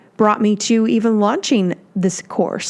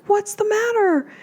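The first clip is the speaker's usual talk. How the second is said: worried concern; 13 semitones higher than usual. Retold or imitated. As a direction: ask gently but startled. Asking the crying client what's wrong.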